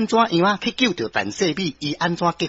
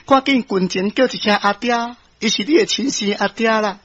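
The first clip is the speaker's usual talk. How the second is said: higher motherly voice; mother urging her child; 4 semitones higher than usual. Acted. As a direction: coax the child toward the father. Mother urges child to greet father. (阿母催囡仔叫阿爹)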